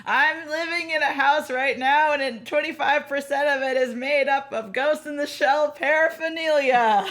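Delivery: high, loud, drawn-out mock voice; bad impression of a friend, high and insistent; terrible Alex Patak impression. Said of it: "I'm gonna do a terrible Alex impression".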